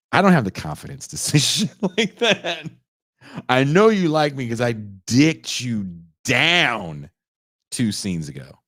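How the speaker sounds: loud slow swaggering braggart voice; cocky mock boyfriend. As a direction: brag it loud and slow, full of himself.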